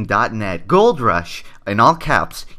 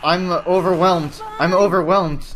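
mock panic; 6 semitones higher, 4 dB louder than usual. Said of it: "I'm having a panic attack".

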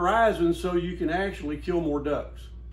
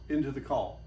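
breathy hot-air exhale; 2 semitones lower, 3 dB quieter than usual. Shown as a demonstration. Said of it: "blowing hot air like you fog a window".

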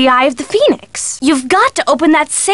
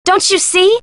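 high-pitched eureka moment; excited realization; 4 semitones higher than usual. Acted. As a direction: burst out with a sudden discovery. Sudden realization about hidden gold.

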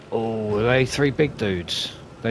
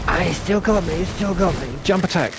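frustrated cry; 8 semitones higher than usual. Real, not acted. Player frustrated after getting hit.

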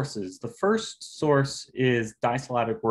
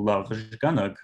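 "lavzhganug" stressed on its second syllable; "lavzhganug", second syllable stressed over the first; slower than usual. Shown as a demonstration. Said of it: "stress is falling on that second syllable".

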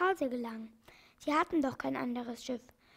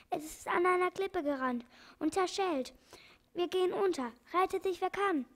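parrot voice; 5 semitones higher than usual. Acted. Parrot warns of sinking ship.

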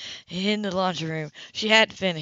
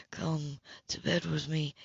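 low, softer, slower murmur; an even quieter, slower plea; 4 semitones lower, 8 dB quieter, slower than usual. A narrator's reading. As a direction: draw it out in a hushed murmur. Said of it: "he murmured".

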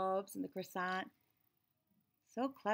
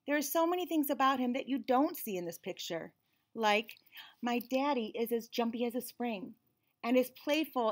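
put-on lively storybook reading in a child's narrating voice; picture book read-aloud; 3 dB louder than usual. A narrator's reading. Reading a picture book to children, lively and bright. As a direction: read it like the kid telling the story.

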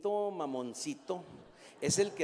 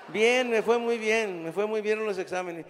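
put-on little girl voice; 5 semitones higher, 7 dB louder than usual. Girl answering grandpa on phone.

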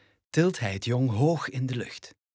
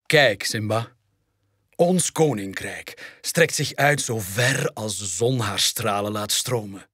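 rustige, plechtige vader-koning, licht gespeeld; wise king father. Acted. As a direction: spreek als een wijze koning tot zijn zoon. (vader toont zoon het koninkrijk, plechtig)

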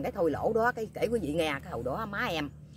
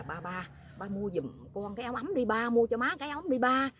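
coaxing plea; 6 semitones higher than usual. Retold or imitated. Retold coaxing of man to buy.

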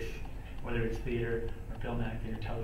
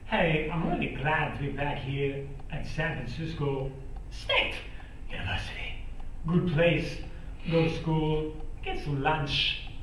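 Adam Sandler impression; 3 semitones higher, slower than usual. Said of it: "I started doing it with Adam Sandler".

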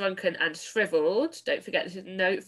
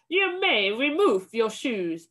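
slow witch bark; a harsh witch barking at her followers; barked command; 4 semitones higher than usual. Acted. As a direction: snap the order out slowly. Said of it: "barked the Grand High Witch".

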